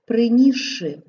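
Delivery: "принісши" with сш merged into one long sh. Shown as a demonstration. Teacher showing how сш is pronounced, long sh. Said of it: "вимовляємо як ши довгий".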